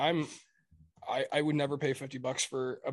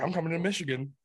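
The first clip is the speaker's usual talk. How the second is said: mock excitement; 4 semitones higher than usual. Teasing a friend keen on breaking printers, mildly mock excited. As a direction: lightly imitate an excited friend, a little higher. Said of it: "He's all excited".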